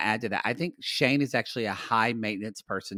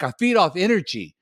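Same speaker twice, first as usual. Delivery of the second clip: lightly imitated show contestant; a hint of his way of talking, a bit higher; Shane; 4 semitones higher than usual. Host quoting a dating show contestant, lightly imitating him. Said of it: "trying to talk like that".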